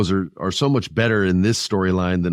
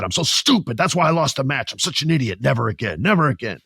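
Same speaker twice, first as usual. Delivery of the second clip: higher, worked-up self-scolding; mock self-berating; 3 semitones higher than usual. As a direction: beat yourself up in mock frustration. Acted self-berating as Kevin Owens.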